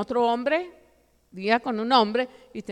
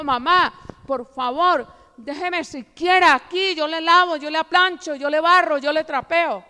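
higher, urgent plea, imitating a crying girl; tearful begging; 4 semitones higher than usual. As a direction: beg mother with a mock tearful push, chore after chore. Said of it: "llorando le dijo". (súplica llorosa, imitada)

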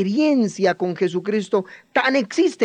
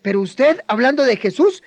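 raised, needling string of questions; mocking bystanders; 2 semitones higher, faster than usual. Other men intimidate a follower of Jesus, retold mockery. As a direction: imitate men taunting a new believer. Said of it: "palabrejas y muchas cosas que utilizamos para intimidar".

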